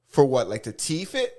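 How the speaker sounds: mock Toronto accent, lightly done. Mocking the rapper's Toronto accent to a friend. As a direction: imitate his Toronto-style "to teeth it". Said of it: "And he goes".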